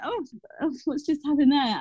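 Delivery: high-pitched, lightly shocked little oh; retold shock. New teacher recalling being hit by a child, retold shock. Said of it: "I was so shocked".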